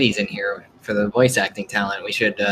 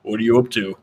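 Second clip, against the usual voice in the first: mock girl voice. Joking female character voices.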